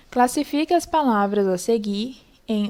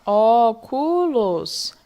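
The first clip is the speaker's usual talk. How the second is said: óculos drawn out slowly, syllable by syllable; split into syllables; 4 dB louder, much slower than usual. Shown as a demonstration. Teacher showing pupils how to split óculos, slow syllable by syllable. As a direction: separate it slowly: ó... cu... los. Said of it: "vocês vão separar".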